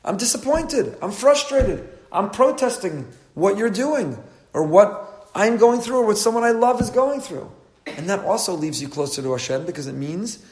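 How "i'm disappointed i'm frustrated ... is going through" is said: much higher, louder anguished complaint; frustrated protest. Shown as a demonstration. A hurting person protesting to God, anguished and loud. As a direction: pour out frustration, slowing toward the end. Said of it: "Talking to Hashem is also".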